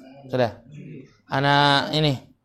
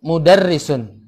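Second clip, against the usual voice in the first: slow; slower than usual. Shown as a demonstration. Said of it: "Fadal antum".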